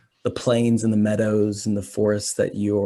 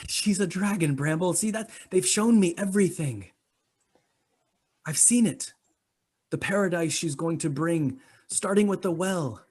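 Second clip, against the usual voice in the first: high, breathless devotee; devoted follower insisting, pitched high; fervent belief; 7 semitones higher, 3 dB quieter than usual. Acted. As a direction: insist it's true, pitched up.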